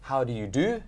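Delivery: formal introduction. Shown as a demonstration. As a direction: show a crisp proper introduction. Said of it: "I will introduce myself".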